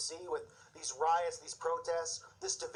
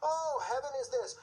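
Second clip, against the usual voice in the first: higher-pitched mock of a limp preacher; mocking passionless preacher; 6 semitones higher than usual. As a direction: put on a feeble, uncommitted church voice. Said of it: "who have no passion in their voice".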